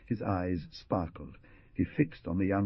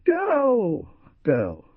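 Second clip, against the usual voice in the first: a louder, higher cry of alarm; 8 dB louder than usual. Acted. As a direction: call her name as fear grips him. Father alarmed at daughter's grief.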